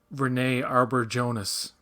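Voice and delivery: Renee Arbor Jonas, said slowly as plain English words; mispronounced name. Shown as a demonstration. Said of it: "That's what it was to me".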